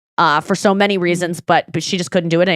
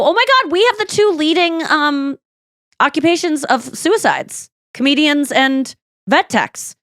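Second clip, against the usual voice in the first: high-pitched, animated self-quote; high and stretched out at the end; retold excited realization; 7 semitones higher than usual. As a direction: share a grim discovery with mock delight. Retells own excited realization at party.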